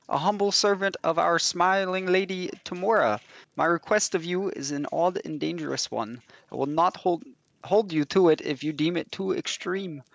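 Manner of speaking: put-on a light, hammy French accent; mock French accent. Priest explaining his need, in mock French accent. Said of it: "this is me trying to do a French accent".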